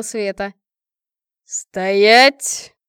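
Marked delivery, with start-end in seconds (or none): 1.4-2.7 loud sharp bark; barked command. A narrator's reading. King halting the fleeing girls: loud bark. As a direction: stop them dead with one word. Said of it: "вновь рявкнул король".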